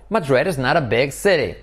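"city" falling at the end; falling intonation. Shown as a demonstration. Teacher showing falling intonation on the statement. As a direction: let the pitch drop on "city". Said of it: "Entonación, no".

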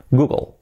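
Google as "GOO-gol"; English Google with light final L; English pronunciation. Shown as a demonstration. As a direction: barely sound the L in Google. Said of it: "así sería".

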